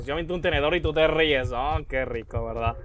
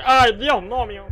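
a mock panicked cry, higher and louder; mock frightened shriek of God no; retold scared yelp; 5 semitones higher, 4 dB louder than usual. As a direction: replay the jump scare as a startled shriek. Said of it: "yo como que".

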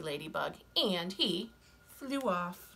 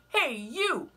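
high, loud, grumpy bug; grouchy ladybug voice; 7 semitones higher, 5 dB louder than usual. Acted. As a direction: bark the challenge up high. Ladybug challenges flipper.

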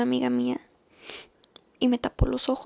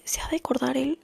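whispered musing. Shown as a demonstration. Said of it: "pienso así de".

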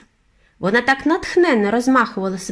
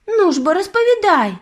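put-on impatient boy, much higher and louder; urging; 11 semitones higher, 4 dB louder than usual. A narrator's reading. Boy urging his grandmother to tell, impatient. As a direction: hurry her along eagerly.

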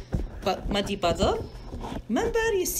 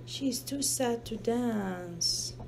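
slow, softer sad storytelling; softly sad; 6 dB quieter than usual. Acted. Mother to child, reading that Hippo is sad, slow and soft. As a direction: let the sadness slow you down.

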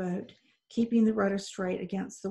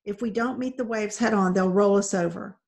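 crying out; 5 dB louder than usual. Acted. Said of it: "Isabel heard Lewis cry".

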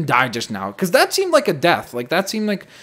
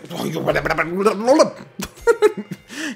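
laughing gibberish sputter; lost-for-words babbling laugh; flustered babble; 4 semitones higher than usual. Real, not acted. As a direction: sputter nonsense syllables into a laugh. Flustered babble after being camped.

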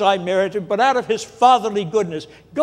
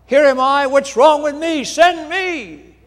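much higher, loud cry of eager volunteering; exhilarated shout; 7 semitones higher, 4 dB louder than usual. Retold or imitated. Isaiah answering God, exhilarated loud shout. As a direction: shout it out, thrilled to be spared. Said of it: "he shouts out".

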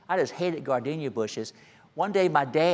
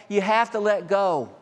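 emphatic; 5 semitones higher than usual. Acted. Preacher repeats his point with force.

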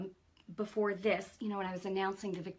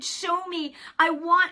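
crying out to God; 8 semitones higher, 9 dB louder, slower than usual. Retold or imitated. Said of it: "I was literally crying out to God".

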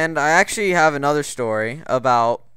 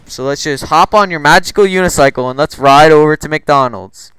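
mock enthusiasm; 7 dB louder than usual. Mocks friend's unicycle suggestion.

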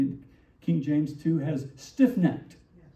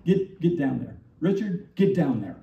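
mock command. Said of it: "That's kind of what that means".

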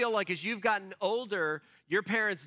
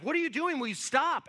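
high-pitched, protesting outcry; mock scream; 8 semitones higher, 3 dB louder than usual. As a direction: imitate a panicked yell without full volume. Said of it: "he's just screaming".

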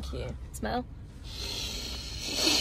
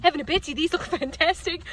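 lightly put-on Aussie catchphrase; Australian accent; 3 semitones higher than usual. Shown as a demonstration. Coaching partner on what to say, Australian accent. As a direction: model the Aussie line for someone. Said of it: "Do it in an Australian accent".

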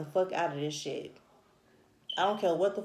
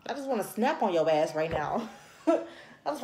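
laughing. Real, not acted. Laughs while scolding the viewer.

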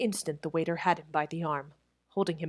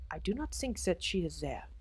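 quieter, gentle French waiter; said softly; 6 dB quieter than usual. Acted. Head waiter to Crutchley at the window, softly. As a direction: ease it out softly, hint of French. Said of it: "the waiter said softly".

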